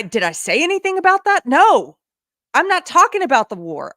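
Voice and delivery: exasperated, voice climbing in frustration; upset. Real, not acted. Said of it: "I'm getting a little upset".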